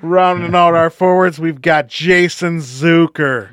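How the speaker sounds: lightly voiced arena announcer; hockey announcer. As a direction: announce the player name. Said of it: "hockey announcer voice".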